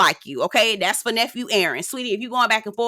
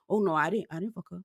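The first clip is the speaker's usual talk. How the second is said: sheepish denial; 4 semitones lower, 8 dB quieter, faster than usual. Retold or imitated. Josh denying, caught lying.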